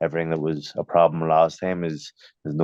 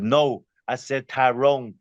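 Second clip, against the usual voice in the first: imitated insistence, slow and higher-pitched; insistent American official; 6 semitones higher, slower than usual. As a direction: imitate a man slowly correcting someone. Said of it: "he started getting angry".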